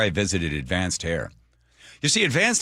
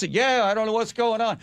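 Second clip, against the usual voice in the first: much higher, dopey motorist voice; mock clueless driver; 12 semitones higher than usual. Host voicing a driver at the gas station, high and dopey. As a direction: play the baffled guy at the pump. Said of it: "go to a gas station".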